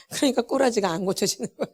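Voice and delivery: real chuckle running through the words; amused, half-laughing remark. Real, not acted. Preacher chuckles over stubborn behaviour.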